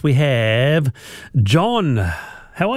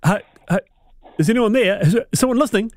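calling down line; 5 semitones higher, faster than usual. Retold or imitated. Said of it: "you go".

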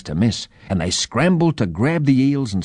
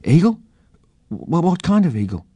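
put-on high, feigned-innocent child's voice; embarrassed boy; 8 semitones higher than usual. A narrator's reading. Blushing boy dodges his uncle's question, high and awkward. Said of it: "Jonty blushed and said".

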